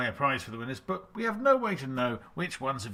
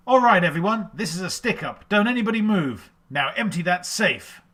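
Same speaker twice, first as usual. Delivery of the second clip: robber's stick-up; 6 semitones higher, 8 dB louder than usual. Acted. Robbery quote, fast round.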